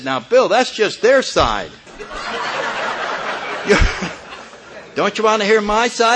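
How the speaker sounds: mock-pleading with the sponsor, laughing; laughing plea.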